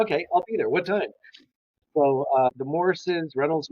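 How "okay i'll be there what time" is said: higher-pitched, eager to take anything; retold eagerness. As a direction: re-enact jumping at any job. Eagerly accepts the job.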